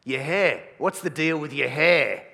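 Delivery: loud, baffled demand; older guy. Acted. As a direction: demand an explanation like an indignant older bloke. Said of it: "they'll say something like this".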